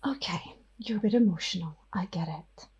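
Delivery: cool, gathered vampire whisper; smooth over the shock, softly dismissive; composed whispering Ophelia. Acted. Ophelia regains composure and leaves Aidan, whispering coolly. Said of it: "she gathers herself and she's like".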